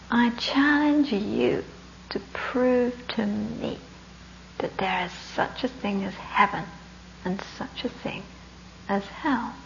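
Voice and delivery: slow, weighty samurai challenge, no shouting; fierce samurai. Acted. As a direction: deliver a measured challenge with long pauses. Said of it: "he's a very fierce chap".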